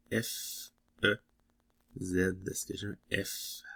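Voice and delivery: whispered, holding breath over the ticket; soft nervous whisper while checking a letter; suspense whisper. Real, not acted. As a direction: hush it like the reveal could jinx it.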